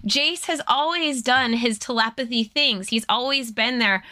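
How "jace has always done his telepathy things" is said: ordinary talk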